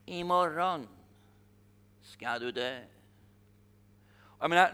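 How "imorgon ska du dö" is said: menacing queen's threat. Retold or imitated. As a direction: lower and softer, a quietly sinister threat. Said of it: "hennes röst när hon sa". (Isabels hot, lågt och tyst)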